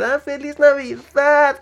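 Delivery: high, slow, sugary greeting; exaggerated holiday cheer. Greeting everyone at Christmas, overdone high cheer. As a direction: gush it like forced festive joy.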